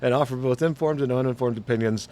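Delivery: upbeat host announcement; podcast intro. Acted. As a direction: open the show like an announcer. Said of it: "And I said that wrong".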